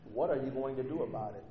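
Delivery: high-pitched, pleading questions to God; swooping, exasperated prayer; frustrated Habakkuk. Acted. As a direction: press God for answers, incredulous. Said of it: "He's frustrated".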